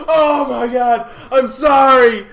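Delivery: high, shouted, laughing apology; laughing fake apology. Coworker apologizing for the name tag prank, laughing loudly. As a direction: cackle through a mock sorry. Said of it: "And he goes".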